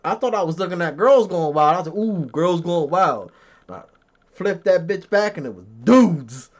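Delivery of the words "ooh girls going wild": slow, drawn-out intrigued ooh; mock delight. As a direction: act out a teenager's eager discovery. Retells his eager teenage reaction.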